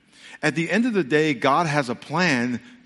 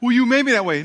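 sulky talking back; 8 semitones higher, 6 dB louder, faster than usual. Acted. Believer talks back to God.

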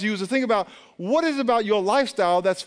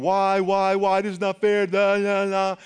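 mock whining; 2 semitones higher, slower than usual.

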